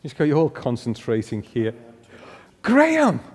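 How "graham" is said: loud high call across the room; sudden loud shout of a name. Real, not acted. Calling out a heckler's name.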